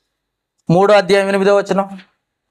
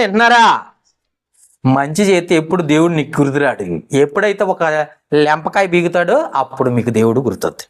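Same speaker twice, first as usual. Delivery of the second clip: ordinary delivery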